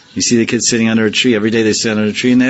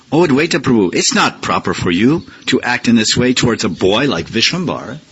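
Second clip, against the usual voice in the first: higher, earnest remonstrating voice; rephrased Gadadhar; 5 semitones higher than usual. Retold or imitated. Gadadhar reasoning with the Acharya, higher and pleading. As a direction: plead with the elder, pitched up. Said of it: "Siddhanta Saraswati says, he rephrases".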